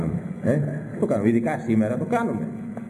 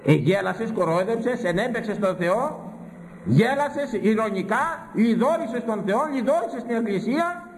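1 rising rebuke; 7 semitones higher than usual. Acted. Preacher rebukes scoffer.

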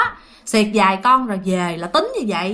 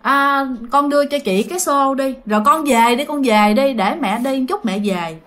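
put-on mother telling child. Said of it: "cho nên mẹ mới".

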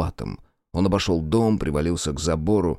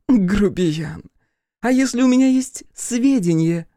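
put-on high, slow, loud drunken coo; teasing drunk voice, pitched up; 13 semitones higher, 5 dB louder than usual. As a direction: block his way with a tipsy leer. Drunk daughter baits Crow.

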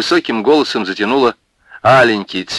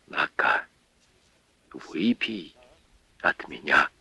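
softer, half-whispered offering; hushed offering; 4 semitones lower, 10 dB quieter, slower than usual. Acted. Widow offering Михаил a drink, hushed. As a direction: give him the glass tenderly.

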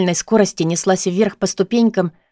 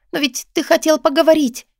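much higher, imploring; 8 semitones higher than usual. A narrator's reading. Heroine on the phone, high and imploring. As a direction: beg him to keep his word. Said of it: "взмолилась я".

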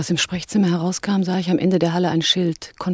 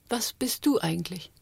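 whisper; 6 dB quieter than usual. Acted. Intimate question to Altmaier.

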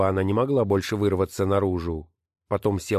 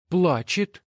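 put-on high, slow girl's voice; child reporting; 10 semitones higher than usual. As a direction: tell father mother is crying. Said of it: "подтвердил Саул". (высокий медленный голос девочки)

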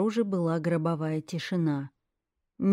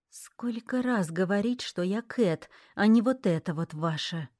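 sleep talking; 2 semitones higher than usual. Acted. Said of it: "сквозь сон пробормотала".

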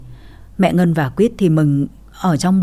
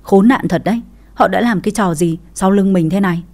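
yelling in fury at the betrayal; angry yell. Acted. Wife sees husband with his stepmother, angry yell. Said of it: "quát ầm lên".

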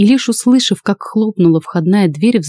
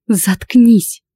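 hissed and higher; snake voice; 4 semitones higher than usual. Acted. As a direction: hiss it like a snake. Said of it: "прошипела Лада".

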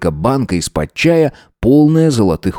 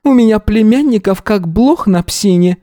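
put-on old gypsy woman; 12 semitones higher than usual. A narrator's reading. Old gypsy woman Yana voiced.

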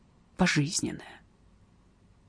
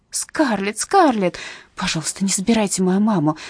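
crying out. Acted. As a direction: cry out to stop them. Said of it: "закричала Скарлетт".

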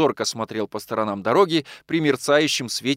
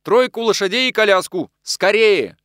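louder, higher barked orders; urgent shout; 8 semitones higher, 6 dB louder than usual. A narrator's reading. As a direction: hurry the coachman. (громкий, срочный приказ)

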